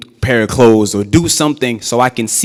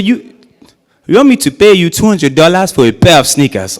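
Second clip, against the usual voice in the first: outraged dad; 6 semitones higher, 5 dB louder than usual. Retold or imitated. Immigrant dad outraged at price.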